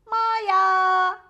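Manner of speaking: high, very loud, drawn-out shout; barked call. A narrator's reading. Ponçik the dog calls to Maya, loud barked shout. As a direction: call the name like an excited dog. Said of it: "diye havladı Ponçik".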